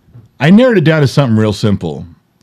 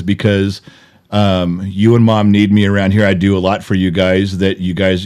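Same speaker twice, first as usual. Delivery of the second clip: calm; 4 semitones lower than usual. Retold or imitated. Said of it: "very calmly and says".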